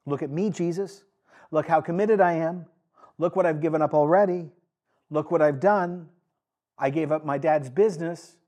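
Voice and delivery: a boastful disciple begging to be noticed; boastful Peter. Acted. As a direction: show off your devotion, rising toward the end. Peter pleading to Jesus.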